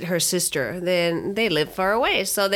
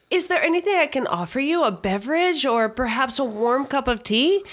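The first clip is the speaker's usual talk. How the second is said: put-on overly polite little boy; 6 semitones higher than usual. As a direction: play a four-year-old who talks like a butler. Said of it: "the little boy's like".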